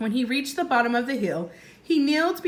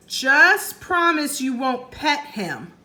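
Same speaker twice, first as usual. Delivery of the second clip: 1 calling up; 4 semitones higher, 5 dB louder, slower than usual. Acted. Jack calling up to Annie.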